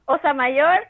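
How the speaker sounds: Osa Mayor in a careful Spanish accent; Spanish pronunciation. Shown as a demonstration. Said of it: "How do you say it in Spanish?".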